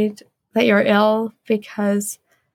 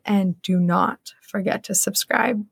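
slow, lowered mock-serious instruction; playfully stern, measured and slow; 3 semitones lower, slower than usual. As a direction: say it gravely and slowly, half in jest. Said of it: "in my very serious voice".

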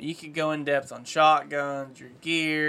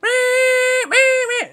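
loud, high comeback call quacks; duck call honks; 9 dB louder, much slower than usual. Retold or imitated. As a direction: belt out a mallard comeback call. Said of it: "that comeback call".

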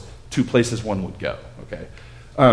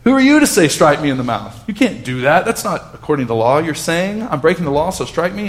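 retold yell; 4 semitones higher than usual. Paul yelling back at the high priest, heated. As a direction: fire back indignantly at the priest. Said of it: "and Paul yells back".

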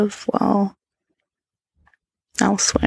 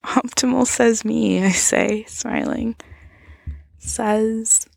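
ASMR whisper. A narrator's reading. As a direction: whisper the whole story close to the mic.

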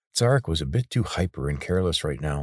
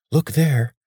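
hissed; 9 semitones higher, 6 dB louder than usual. A narrator's reading. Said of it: "he hissed".

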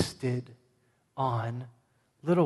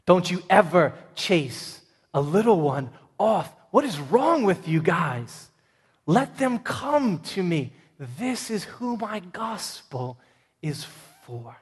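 indignant scolding; 3 semitones higher, slower than usual. Acted. Jesus scolding disciples, voiced.

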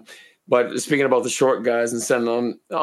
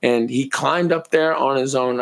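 hoarse, slower retake; raspy whisper; slower than usual. Real, not acted. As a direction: voice giving out, raspy. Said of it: "Sorry, I'm losing my voice".

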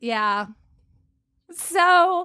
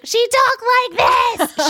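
mock yell, higher and louder, slowed; imitated yell; 8 semitones higher, 4 dB louder than usual. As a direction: belt it out like the mean teacher. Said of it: "She yelled".

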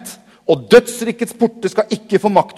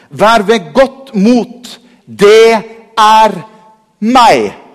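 Jesus voice; 5 semitones higher, 6 dB louder, much slower than usual. Acted. Jesus voiced reassuring on the water.

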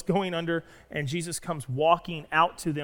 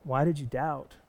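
smiling gentle rebuke. Acted. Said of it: "with a smile on his face".

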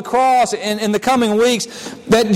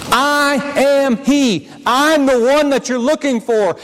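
very slow, calm statement; plain and humble, no boast; slower than usual. Shown as a demonstration. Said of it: "I don't think Jesus said that in a boastful way".

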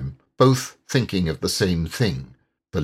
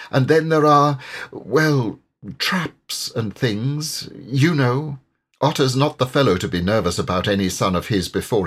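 worried river rat, earnest and warm; a concerned old friend telling bad news; Water Rat voice; 2 semitones higher than usual. Rat explains Otter's fear.

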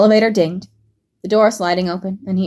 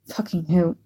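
scoffing; 5 dB quieter than usual. A narrator's reading. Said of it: "he scoffed".

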